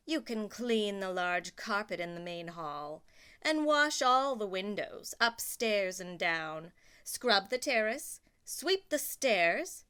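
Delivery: a bossy list of jobs, pressing harder; stern stepmother. Acted. Stepmother ordering Cinderella about, bossy and building.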